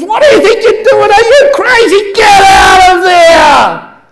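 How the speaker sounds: furious high-pitched full shout, acted out; Aussie guy losing it, screaming across the snow; going ballistic. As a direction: yell it at the top of your voice, ending on a long drawn-out scream. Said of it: "the Aussie guy looks up and goes ballistic".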